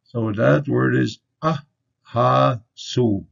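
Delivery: ahasu said slowly, every vowel open ah; slow model word. Shown as a demonstration. Teacher modelling the word for crow, slowly. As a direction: draw out ahasu with broad ah sounds. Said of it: "we have the ah".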